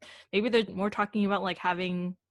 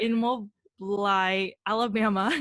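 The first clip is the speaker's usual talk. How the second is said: slow careful Mobile; slower than usual. Shown as a demonstration.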